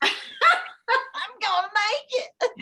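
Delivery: very high, drawn-out mock inner voice; slow-motion hope. Replaying her thought in mid-air, slow-motion hope. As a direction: stretch it out high, laughing through it.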